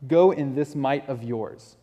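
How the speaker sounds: slow, earnest charge; an earnest blessing, not a joke; sincere commission. Shown as a demonstration. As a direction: send him out in full trust, slowly. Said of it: "he's not mocking Gideon and saying".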